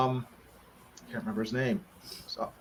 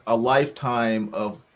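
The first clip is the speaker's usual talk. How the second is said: mock heartbroken; 4 dB louder, much slower than usual. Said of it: "I was like".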